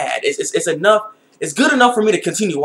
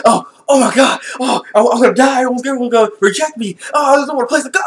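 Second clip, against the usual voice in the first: higher, louder fake-crying wail; mock crying despair; 6 semitones higher, 3 dB louder than usual. Imitating the main character's crying panic over the clothes. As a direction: whimper it like a doomed teenager. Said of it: "And he's like".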